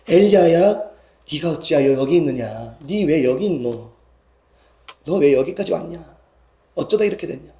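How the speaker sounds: warm, loving, pitying questions; tender, compassionate voice. Acted. God feels for weary Elijah, tender and gentle. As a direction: let it sink gently, full of sympathy. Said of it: "안쓰럽게도 여기시는 그 부드러운 음성으로".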